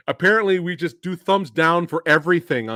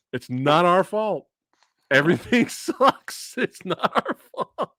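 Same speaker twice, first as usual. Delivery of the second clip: mock rant; 5 semitones higher, slower than usual. Acts out rant video title, laughing.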